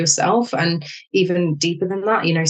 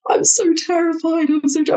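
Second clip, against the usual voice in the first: retold terror; 10 semitones higher than usual. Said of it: "I called my mum on the phone".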